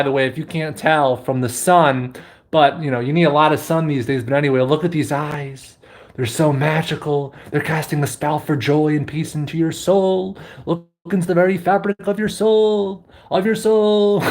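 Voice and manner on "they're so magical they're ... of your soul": a hint of a dreamy mystic; casting a spell, lightly hammed; mock-mystical soul gazing; mystic guru. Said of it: "Nobody on YouTube talks like this".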